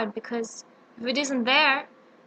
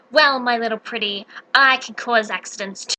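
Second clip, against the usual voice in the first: lower, menacing witch voice; witch's threat; 3 semitones lower than usual. Acted. Witch warning Dorothy, low menacing sneer.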